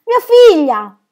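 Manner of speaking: loud, high, slow joyful cry; joyful shout. A narrator's reading. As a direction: shout it out to the whole forest. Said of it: "Poi gridò a voce alta".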